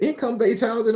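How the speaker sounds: "Income-based housing" said high and prim, each word careful; prim technical phrasing. Retold or imitated. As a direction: quote her like an official form. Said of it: "she said it so technical".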